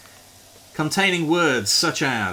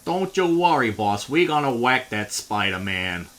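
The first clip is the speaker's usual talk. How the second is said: lightly voiced henchman, a hint of a thug; comic-book goon. A lightly voiced comic goon reassuring his boss. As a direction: play the dumb henchman with a light touch. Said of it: "ad-libbing a fucking Marvel comic dialogue".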